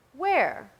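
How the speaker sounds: a pathetic little wail of a question. Acted. Shop girl complaining to Julian, pathetic whine. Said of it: "the girl asked pathetically".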